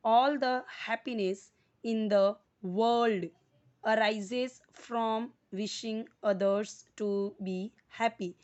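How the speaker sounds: very slow, loud, each word spaced for students to repeat; slow read-aloud for repeating. Shown as a demonstration. Teacher reading the sentence for class to repeat, slow and loud. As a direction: read it out slowly so the class can copy. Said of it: "repeat कीजिए after me".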